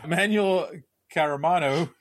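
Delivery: ordinary delivery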